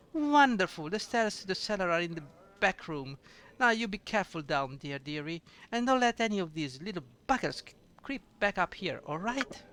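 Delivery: put-on sweet, fluttery old barmaid with little laughs; lightly voiced doting innkeeper; fussy tavern keeper. Innkeeper fussing over a guest, sweet and chatty.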